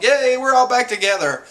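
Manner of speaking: high, loud reunion cheer; mock cheering. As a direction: cheer it out, imitating an excited crewmate.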